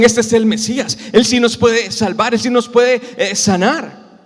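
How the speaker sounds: acted fervent cry; shouting with conviction. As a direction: proclaim it over the crowd. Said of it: "Y le gritaban más fuerte".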